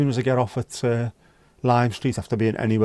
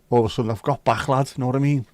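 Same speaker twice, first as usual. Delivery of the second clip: broad Scouse; faster than usual. Shown as a demonstration. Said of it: "slightly more Scouse accent today".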